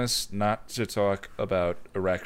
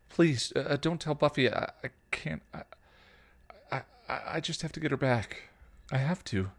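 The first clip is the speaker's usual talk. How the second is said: put-on pleading teen; 4 semitones higher, 3 dB quieter than usual. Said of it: "Dawn pleaded".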